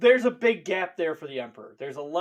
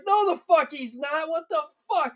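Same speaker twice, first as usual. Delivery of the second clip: higher, hammed-up furious Emperor; mock outrage at the son who broke the wall; angry Emperor; 11 semitones higher, faster than usual. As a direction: scold him like an outraged father, fast at the end. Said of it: "And Emperor's like".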